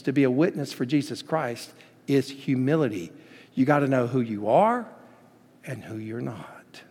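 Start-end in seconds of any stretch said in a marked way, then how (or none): 5.7-6.8 slow, hushed whisper. Real, not acted. Preacher driving home his refrain to the church, whispered. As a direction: let the point land in a whisper. Quiet closing of sermon refrain.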